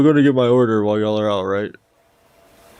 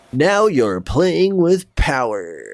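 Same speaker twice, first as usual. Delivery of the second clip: thin reedy voice; 5 semitones higher, slower than usual. Shown as a demonstration. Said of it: "My voice is so weak today".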